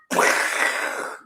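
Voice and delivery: sudden breathy whoosh of noise; imitated dragon noise. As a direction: mimic a dragon bursting in.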